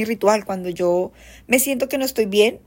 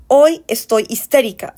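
mock hysterical complaint; 6 dB louder than usual. Quoting negative phrasing.

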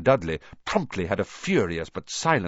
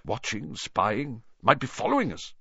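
wild mutter; 6 semitones higher than usual. A narrator's reading. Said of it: "muttered Uncle Vernon wildly".

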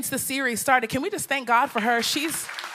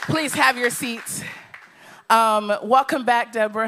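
out of breath; 3 dB louder than usual. Real, not acted. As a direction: still catching breath. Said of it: "let me catch my breath".

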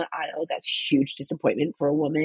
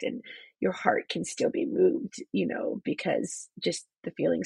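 crying. Real, not acted. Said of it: "'cause I'm crying so much".

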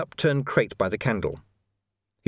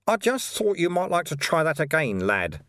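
raised character voice, falling on the last word; high-pitched, easy-going little sage; unruffled mysterious mentor; 5 semitones higher than usual. Acted. Invisible friend to floored Vimes, unruffled and high.

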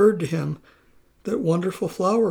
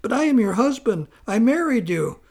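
perplexed appeal; 5 semitones higher than usual. Acted. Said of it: "Completely perplexed, Pusol appealed".

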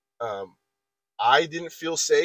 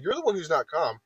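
higher mock protest, not shouted; retold yelling; 4 semitones higher than usual. Retelling an agitated coworker's comeback, mild mock yell. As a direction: imitate his indignant comeback. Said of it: "that's when he starts yelling".

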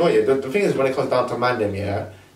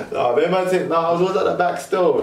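laughing; 4 semitones higher than usual. Real, not acted. Laughing at himself.

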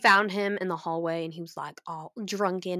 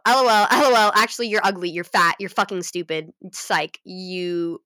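mock taunting kid; 4 dB louder than usual. Voicing mean schoolkids' taunt.

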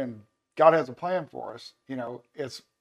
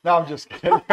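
laughing; 5 dB louder than usual. Real, not acted. Joke about begging three years.

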